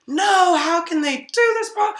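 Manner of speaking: lightly acted outraged complaint; imitated yelling. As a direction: mimic the diner's high-pitched protest. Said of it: "starts yelling".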